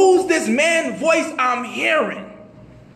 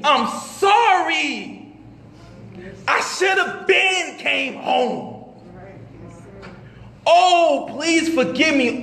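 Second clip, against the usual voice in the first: pleading prayer; slower than usual. Retold or imitated. Tearful prayer on the floor.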